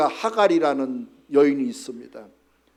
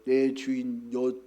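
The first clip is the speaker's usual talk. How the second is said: Hagar's answer; 5 semitones lower, 7 dB quieter than usual. Retold or imitated. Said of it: "하갈이 말하기를".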